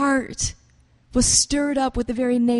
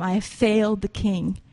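broken magi; 3 dB louder than usual. Acted. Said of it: "His spirit breaks within him".

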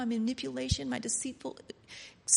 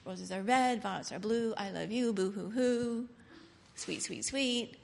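mocking sappy poem; 3 semitones lower than usual. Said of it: "I don't want the poem that says".

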